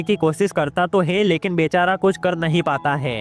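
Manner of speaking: steady, evenly pitched plot narration; movie explainer voiceover; story recap narration. A narrator's reading. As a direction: narrate the plot in a continuous, regular rhythm.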